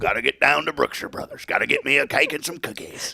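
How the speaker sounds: high, hammed-up country twang; country accent. Host pretends to head out for cake, high hammed-up country accent. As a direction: play a country shopper in a high Southern twang. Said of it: "That sounds real country".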